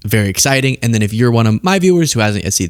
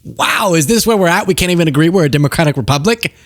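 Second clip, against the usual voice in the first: mock gasp of disbelief, pitched up; dismayed wow at the debate; exasperated disbelief; 3 semitones higher than usual. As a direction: sound baffled that this is where we're at. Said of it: "I get so".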